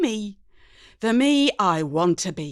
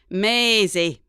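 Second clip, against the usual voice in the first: sharp retort; 5 dB louder than usual. Acted. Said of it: "sharp as a flick knife".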